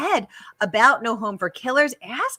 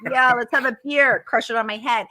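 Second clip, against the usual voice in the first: hammed-up beer-buddy caricature; exaggerated macho chumminess; mock guy talk; 3 semitones higher, 7 dB louder than usual. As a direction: parody a rowdy drinking pal. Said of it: "You know how guys are like".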